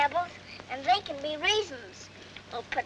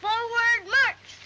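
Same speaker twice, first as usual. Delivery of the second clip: slow, drawn-out drill order; military command; 6 semitones higher, much slower than usual. Pretend. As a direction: call it out like a little colonel. Child playing colonel commands troops.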